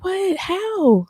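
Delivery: high, laughing gasp of disbelief; half-laughing, can't believe it; stunned disbelief. Retold or imitated. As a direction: blurt it out in shocked amazement. Shocked at hearing the vote result.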